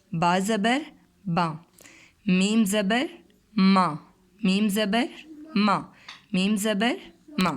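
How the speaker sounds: slow, sung-out letter drill with rising زبر; phonics drill. Shown as a demonstration. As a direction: spell each letter out for a child, then say the sound. Teacher drills letter sounds. (آہستہ آہستہ حروف کی مشق)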